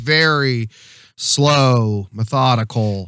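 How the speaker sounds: "slow" stretched long, then measured; slow, methodical. Shown as a demonstration. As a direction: draw out "slow" in Texan cadence. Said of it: "it's the cadence".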